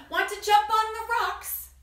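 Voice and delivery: high, loud goat's invitation; storybook goat. Acted. Goat invites the spider onto the rocks, high goat voice. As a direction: pitch it up as a playful goat. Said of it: "said the goat".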